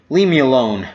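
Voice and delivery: face buried in a mattress; muffled by a mattress. Acted. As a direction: speak into a pillow. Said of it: "I heard muffled by the mattress".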